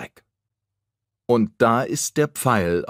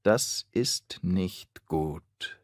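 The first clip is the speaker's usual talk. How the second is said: softer and slower, said to himself; quiet thought; 5 dB quieter, much slower than usual. Acted. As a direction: mutter it slowly inwardly. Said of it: "denkt Geier". (leiser, langsamer Gedanke)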